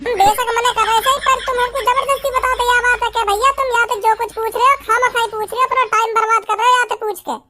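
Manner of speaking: exasperated, fast-running telling-off; angry scolding. Acted. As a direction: berate them for wasting your time. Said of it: "वैसे ही डांट रहे गुस्सा में". (गुस्से में झुंझलाकर डांटना)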